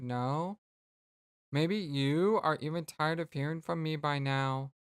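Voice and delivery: measured, courteous alien voice reading a letter; formal alien pen pal. Acted. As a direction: speak like a polite alien friend writing a birthday note. Reads alien friend's message.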